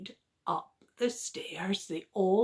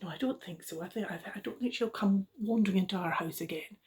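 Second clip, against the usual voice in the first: Mummy Bear; 5 dB quieter, much faster than usual. Acted. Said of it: "And Mummy Bear said".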